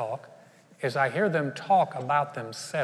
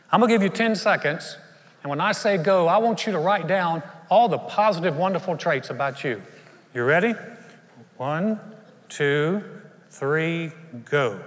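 loud countdown; 4 dB louder than usual. Real, not acted.

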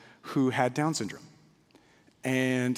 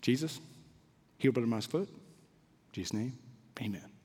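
put-on childlike prayer; 4 semitones lower, 9 dB quieter than usual. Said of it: "barely really had much language".

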